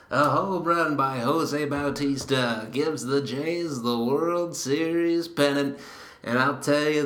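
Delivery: lightly voiced radio play-by-play man; a hint of an old-school baseball radio call; Jerry Howarth radio call. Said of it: "Let's go to the radio broadcast".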